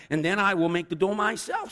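high, loud hen declaration; high-pitched, self-reliant storybook hen; indignant storybook hen. A narrator's reading. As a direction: huffily announce it as the hen. Hen declares she will do it.

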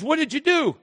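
questioning God. Pretend. God voiced questioning Adam.

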